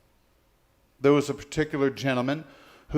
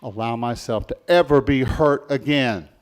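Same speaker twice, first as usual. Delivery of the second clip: firm vow; 3 semitones lower, 4 dB louder than usual. Acted. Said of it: "They make that vow and they say".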